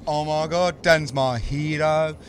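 high, slow, gushing fan voice; mock fan worship, stretched slow. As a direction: overdo the adoration, dragging it out.

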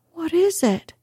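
put-on high frightened boy's cry; a boy's startled, fearful question. A narrator's reading. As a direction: cry it out high in sudden fear. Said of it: "he cried".

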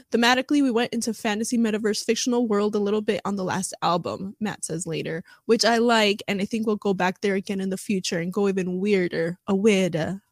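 put-on a light British accent on Matt's quote; lightly put-on British accent, reading Matt's words. Vlogger reads Matt's quote in a light British accent. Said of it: "that's my British, uh, British accent".

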